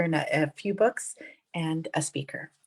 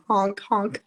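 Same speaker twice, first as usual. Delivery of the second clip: honking noise; 2 semitones higher than usual. Pretend. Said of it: "so I sound like a grandma".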